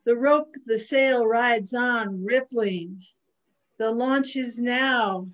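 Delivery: measured poem recital with lingering words; poetry reading. Acted. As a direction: recite it line by line, letting phrases breathe. Reads own poem aloud.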